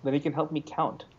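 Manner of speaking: put-on playful vampire count accent; Sesame Street voice. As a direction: Count von Count voice. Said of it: "in that Sesame Street voice".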